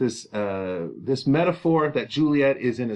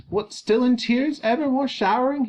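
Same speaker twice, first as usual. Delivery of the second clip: high, gently questioning father; concerned father, pitched up; comforting father; 11 semitones higher than usual. Acted. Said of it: "So he sounds like a very comforting father".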